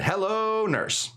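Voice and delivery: a high-pitched cartoon "Hello, nurse"; Yakko quote. Host quoting Animaniacs' Yakko, a high cartoon lilt. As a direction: toss off Yakko's catchphrase, cartoon-bright. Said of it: "Yakko was the one that said".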